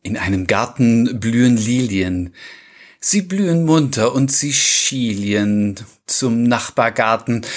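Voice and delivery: slow, measured verse reading; poem recitation. Acted. Co-host reciting Kurt Schwitters for listeners, measured poem reading. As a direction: recite it line by line, lingering on words.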